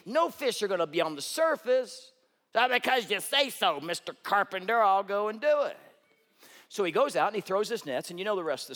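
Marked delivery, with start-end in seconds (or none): 2.5-5.8 mildly sarcastic grudging agreement. Retold or imitated. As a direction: humour him, grudgingly. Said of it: "I think it was more like that".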